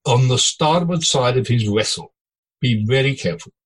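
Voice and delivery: a hint of a Norwegian woman pleading on the phone; Norwegian accent. Boss imitating his captain's Norwegian wife warning him, in a light Norwegian accent. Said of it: "Norwegian accent I'm trying to do".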